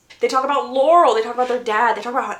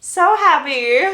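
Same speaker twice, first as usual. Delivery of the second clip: slow, louder, higher false cheer; exaggerated mock happy; 4 semitones higher, 6 dB louder, slower than usual. Narrator repeating that all are happy, exaggerated mock cheer. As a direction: stretch it out with hammed-up irony.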